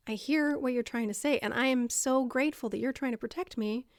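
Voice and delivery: patient, calm reassurance; kind and soothing. Acted. Listener thanking the madwoman for protecting, soothing. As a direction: say it gently, with calm gratitude. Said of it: "patiently, kindly, calmly, and soothingly".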